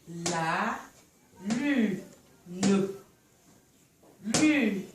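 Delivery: "lune" split into "lu... ne", first syllable drawn out; "la", pause, "lu", pause, "ne". Shown as a demonstration. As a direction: model "la lune" slowly in separate syllables. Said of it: "Vous répétez après moi".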